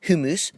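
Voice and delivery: HUMMUS said as HYOO-mus, pitched high; wrong pronunciation. Shown as a demonstration. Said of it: "Not hummus".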